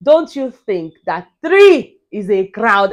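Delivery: slow, measured question with a hint of authority; lightly voiced reality-show overseer; Big Brother. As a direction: draw the question out slowly. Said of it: "Biggie say".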